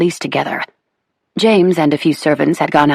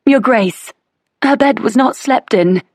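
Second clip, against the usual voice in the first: maid crying out; 8 semitones higher, slower than usual. A narrator's reading. Maid crying out to the Duchess, high and urgent. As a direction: blurt out the alarming news. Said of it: "the maid cried out".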